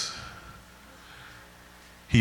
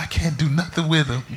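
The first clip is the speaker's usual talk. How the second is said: mother; 5 semitones higher than usual. Retold or imitated. Mother voiced in story.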